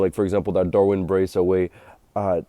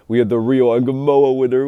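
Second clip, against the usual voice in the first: excited; 5 semitones higher, 7 dB louder than usual. Real, not acted. Recalling a thrilling late winner.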